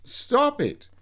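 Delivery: high squealing stop it; laughing teacher. Acted. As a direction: squeal it out between giggles. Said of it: "was laughing out loud and saying".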